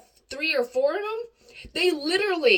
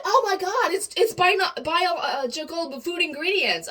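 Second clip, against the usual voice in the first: mimicking mom; 4 semitones higher than usual. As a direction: act out mom's alarmed discovery. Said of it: "she's like".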